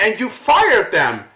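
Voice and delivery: building to a real shout on the last line; angry rant. Real, not acted. To Steven Dorff about his fired agents, angry shout. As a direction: let the outrage burst out. Ranting at the actor.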